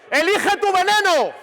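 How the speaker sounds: high, drawn-out emphatic cry; emphatic call. Shown as a demonstration. Coach gives players the key rule, high emphatic call. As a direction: proclaim it slowly like a team slogan.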